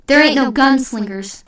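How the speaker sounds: loud, forceful roar of denial. A narrator's reading. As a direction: roar it at the whole meeting. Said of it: "Overholser roared".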